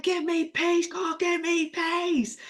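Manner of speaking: loud, drawn-out plea to God for peace; frazzled woman crying out for peace; exasperated plea. Retold or imitated. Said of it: "they're like".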